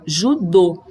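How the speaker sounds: "judô" with a closed, stressed final O. Shown as a demonstration. Teacher repeating the example for pupils, closed O in "judô". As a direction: land on the narrow O at the end of "judô". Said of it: "o som é fechado".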